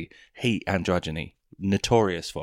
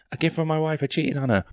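mock audience member; 9 semitones higher, 4 dB louder than usual. Audience member voiced in bit.

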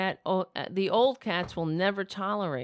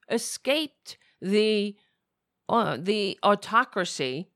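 angry rant; 2 semitones higher, 5 dB louder than usual. Real, not acted. Angry political rant about Flynn.

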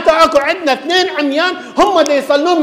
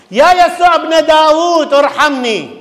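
slow, louder plea for mercy, pitched up; pleading cry; 5 semitones higher, 3 dB louder than usual. Acted. Blind men crying out to Jesus, a loud slow plea. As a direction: call out slowly to him, begging.

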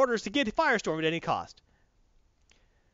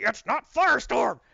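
loud, drawn-out warning shout; Batman yelling; 6 semitones higher, 5 dB louder than usual. Retold or imitated. Batman warning Superman before the blast, loud slow yell. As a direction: yell each word out slowly, pitch raised. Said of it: "Batman's yelling".

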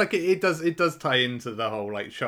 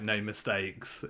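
mocking quote; 5 dB quieter, much slower than usual. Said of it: "asking for a bit of a first".

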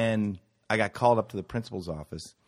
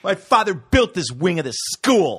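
high, loud boast about father; mock spoiled kid; 8 semitones higher, 8 dB louder than usual. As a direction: lord it over the teacher. Bratty student bit.

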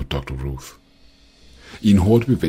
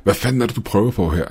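furious demand; 6 semitones higher, 5 dB louder than usual. A narrator's reading. Uncle furious at Ruth.

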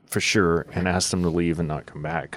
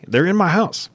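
alarmed aside; 11 semitones higher, 3 dB louder than usual. Retold or imitated. Retold alarm at intruders.

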